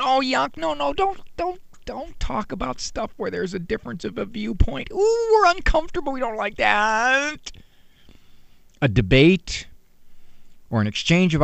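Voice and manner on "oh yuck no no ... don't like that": squeamish mock whine. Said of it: "a culture that says".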